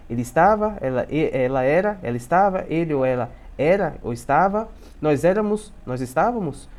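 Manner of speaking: each "era" and "estava" swung up as a question; entonação de pergunta. Shown as a demonstration. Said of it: "vai ser com entonação". (cada "era" e "estava" com entonação de pergunta)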